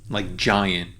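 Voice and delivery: "giant" with GI stressed, ant light. Shown as a demonstration. Teacher showing her class where "giant" is stressed. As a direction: lean on the first syllable of "giant". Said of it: "you know that ji is the stressed part".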